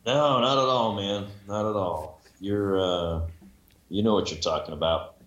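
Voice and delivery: low, measured narrator delivery; audiobook voice. Pretend. Praising a co-host who just apologized, in a low audiobook voice. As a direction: drop into a deep audiobook register. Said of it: "I even used my, my audiobook voice".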